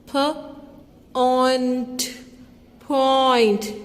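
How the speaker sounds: p then ont then point; sounding out. Shown as a demonstration. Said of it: "This is the sound oe". (ध्वनियाँ जोड़कर पॉइंट)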